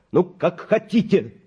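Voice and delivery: dull, heavy and slow; muffled. A narrator's reading. Doctor gives up on the mother, heavy and slow. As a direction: say it flat and hollow, giving up. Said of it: "глухо добавил я".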